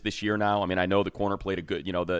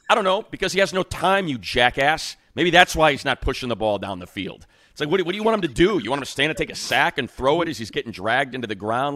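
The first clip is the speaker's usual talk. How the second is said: exasperated rant; 7 semitones higher, 6 dB louder than usual. Real, not acted. Ranting back at radio guy.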